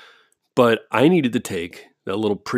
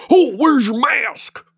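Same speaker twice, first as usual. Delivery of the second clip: slow, much higher mock old-man voice; imitating the old neighbor; 4 dB louder, slower than usual. Neighbor scolding the speaker about his mask, slow mock old man. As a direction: play the pointing neighbor, drawn out and nosy. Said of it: "he points at me and he goes".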